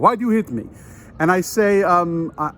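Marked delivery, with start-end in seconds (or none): 0.0-0.6 mock Dracula accent, pitched up a little; a light, put-on Dracula-style foreign accent. Foreign concertgoer asks why he was hit, lightly faked Dracula accent. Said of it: "I'm gonna make him sound like Dracula".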